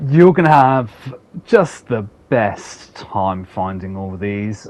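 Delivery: mock-encouraging, dripping with irony; utmost sarcasm. Real, not acted. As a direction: lay the sarcasm on thick. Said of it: "I say with the utmost sarcasm".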